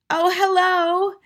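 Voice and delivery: very high, drawn-out innocent greeting; airy, unbothered old lady; cool grandmother. A narrator's reading. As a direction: greet as if nothing is amiss. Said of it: "marveled at the coolness of her voice".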